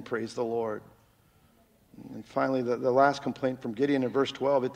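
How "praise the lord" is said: "the" leaned on, lower and softer, trailing off; hushed praise. Acted. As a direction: murmur it gently. Soft close after quiet passage.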